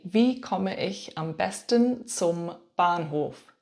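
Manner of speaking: slow, careful modelling of the question; slow model phrase. Shown as a demonstration. Teacher models the question slowly for beginners. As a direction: say it slowly so learners can copy. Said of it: "you could say".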